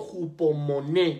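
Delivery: hupomoné with the stress on the final é; Greek word pronounced. Shown as a demonstration. Preacher teaching the congregation the Greek word, stressed on the last é. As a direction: say hupomoné as hu-po-mo-NÉ, landing on the last syllable. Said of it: "con acento en la última E".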